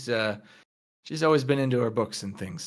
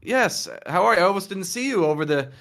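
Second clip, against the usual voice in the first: put-on higher, halting nervous girl voice; flustered Tina; 5 semitones higher than usual. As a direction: stammer it out like a shy student caught off guard. Tina greets Milo, flustered.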